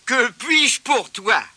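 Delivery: high, slow friendly offer; kind shopkeeper. Acted. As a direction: ask gently what he needs.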